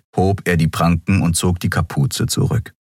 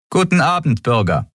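curt guard greeting; 9 semitones higher than usual. A narrator's reading. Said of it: "sagte sie knapp".

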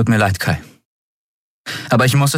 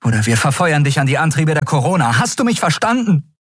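cold threat; 9 semitones higher than usual. A narrator's reading. Endriel threatens Kai.

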